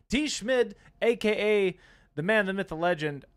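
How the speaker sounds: high, loud announcer hype; mock grand announcement; hype intro. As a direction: build the name up like a ring announcer. Hyping a chatter's name.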